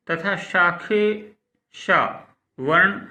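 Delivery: teacher naming letters at dictation pace; slow letter recitation. Shown as a demonstration. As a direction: spell out तथा शाखे शा वर्ण slowly, each sound apart. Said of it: "अघोष हैं".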